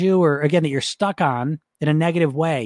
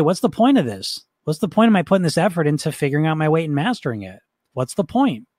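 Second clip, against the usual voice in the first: sincere. Shown as a demonstration. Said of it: "ask that in a sincere way".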